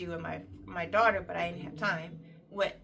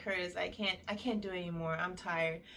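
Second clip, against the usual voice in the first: softer, worn-out plea; retold exhaustion; 2 semitones lower, 6 dB quieter than usual. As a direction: imitate being too tired to go on. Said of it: "and I was so tired".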